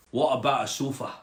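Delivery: put-on frog asking with a Scottish accent. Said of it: "a Scottish frog".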